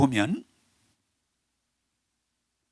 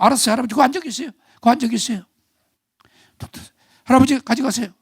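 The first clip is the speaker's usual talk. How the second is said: polite bank clerk; 6 semitones higher, much faster than usual. Retold or imitated. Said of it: "그럼".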